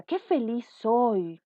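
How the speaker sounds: alegría. Shown as a demonstration. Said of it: "De alegría".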